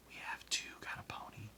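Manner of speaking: very soft, voiceless retort; whispering. A narrator's reading. Girl defends her story to another girl, whispering. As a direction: whisper it back insistently. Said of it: "She whispered back".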